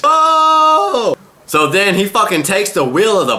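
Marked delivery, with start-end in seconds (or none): 0.0-1.2 a loud, very high shout of glee; a sudden loud squeal of delight; excited oh. Real, not acted. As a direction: whoop it like you just saw a knockout. Reacting to the hit on the guy.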